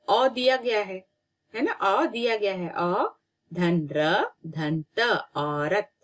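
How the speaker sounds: normal talking voice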